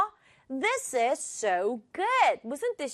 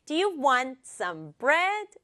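"want" and "bread" stressed in rhythm, rising at the end; much slower than usual. Shown as a demonstration. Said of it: "요렇게 읽어줘요".

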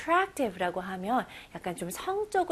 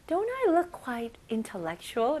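mock vain question; 3 semitones higher, much slower than usual. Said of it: "안경들 이렇게 쓰면서".

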